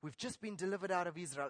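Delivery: quick, low grumbling aside; mock murmur of complaint. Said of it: "and they murmur".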